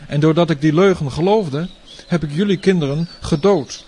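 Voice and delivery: high, loud wailing protest; anguished outburst. Acted. Tyrant blames the heavenly voice, loud anguished cry. Tyrant confesses killing children.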